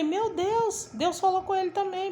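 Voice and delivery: high-pitched, moved exclamation; imitating an overwhelmed cry to God; retold tearful cry. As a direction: relive being moved to tears, voice lifted high. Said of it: "Aí eu comecei a chorar".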